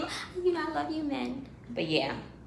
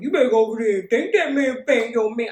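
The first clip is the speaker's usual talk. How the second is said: put-on older guy urging; 5 semitones higher, 8 dB louder than usual. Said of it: "The older guy next to me, like".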